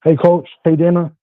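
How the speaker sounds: caller on a phone line; distant phone call voice; over the phone. Real, not acted. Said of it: "you sound like you're far away".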